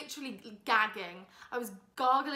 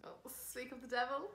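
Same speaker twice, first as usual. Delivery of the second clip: whispering; 7 dB quieter than usual. Real, not acted. Whispered tease.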